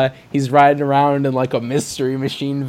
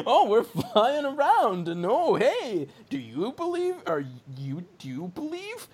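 high, slow, laughing ghost taunt; mock ghost; 7 semitones higher, 3 dB quieter than usual. Flying ghosts tease people in a high laughing voice. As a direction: lilt it high like a teasing ghost.

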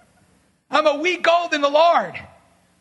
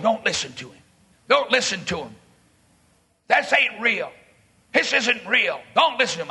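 low, mean heckle to the crowd; a scarred big man telling others to ignore the preacher; menacing inmate; 5 semitones lower than usual. Retold or imitated.

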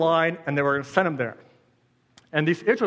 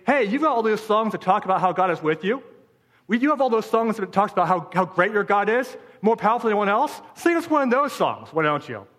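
higher, jeering challenge; mocking taunt; 4 semitones higher than usual. Babylonians taunting Israelites to sing of their God, mocking. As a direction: goad them with a sneer. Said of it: "Because they were mocked".

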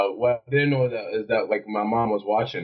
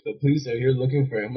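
teacher passing on news, higher than usual; lightly voiced teacher breaking the news; retold teacher's report; 4 semitones higher than usual. Teacher's news, retold before the echo.

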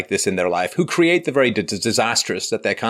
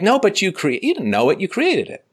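retort; 11 semitones higher than usual. Retold or imitated. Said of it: "It's like".

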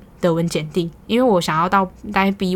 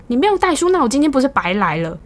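high, louder hammed-up grumbling; mock loud complaint; 7 semitones higher, 5 dB louder than usual. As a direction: act out her ranting in the café. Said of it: "但他在咖啡厅里面嚷嚷".

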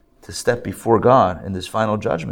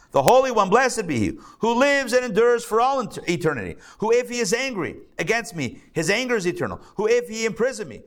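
rising fearful awe; 6 semitones higher than usual. Retold or imitated. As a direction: pitch climbing higher with mounting dread. Retelling the sage's fearful deathbed words.

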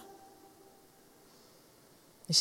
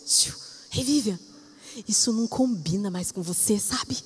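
soft, hushed calling; soft, tender nudge from the Holy Spirit; gentle Holy Spirit voice; 6 dB quieter than usual. Retold or imitated. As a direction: softly coax her attention. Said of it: "ele fala".

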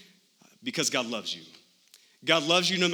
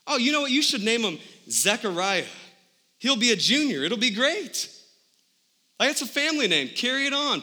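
much higher, bright relatives' voice; eager relatives suggesting a name; 7 semitones higher than usual. Retold or imitated. Relatives eagerly suggest a name, excited high voice. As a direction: play the eager relatives pitching a family name. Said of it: "and they're thinking".

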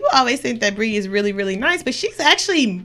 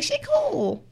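high, airy mock approval; 7 semitones higher, 8 dB quieter, slower than usual. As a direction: chirp it like a won-over friend. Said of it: "you're like".

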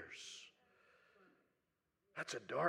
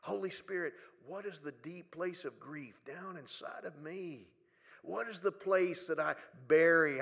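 soft prayer. Pretend. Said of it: "have the courage to say".

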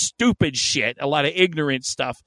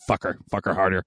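low, gruff predatory growl; shark voice; 9 semitones lower, faster than usual. Retold or imitated. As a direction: snarl it like a hungry shark. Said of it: "I actually heard your shark voice there".

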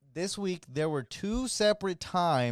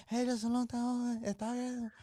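mocking cook; 8 semitones higher, 6 dB quieter than usual. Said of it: "He's like".

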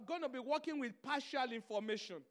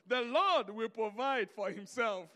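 calm fatherly reply; 2 semitones lower, 4 dB louder, slower than usual. Retold or imitated. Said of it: "He said".

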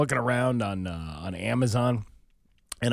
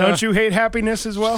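put-on Jamaican accent; 10 semitones higher, 6 dB louder than usual. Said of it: "Jamaican voice".

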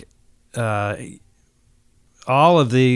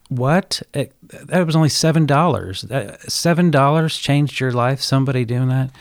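disbelief; 4 semitones higher than usual. Retold or imitated. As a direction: replay your own astonishment at the stranger's call. Retelling his disbelief at the voicemail.

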